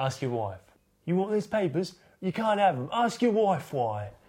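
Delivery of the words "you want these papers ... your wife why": really bad, high, put-on Cockney London accent. Retelling a man refusing to hand over papers, the speaker does a bad EastEnders accent. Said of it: "That was a really bad EastEnders accent".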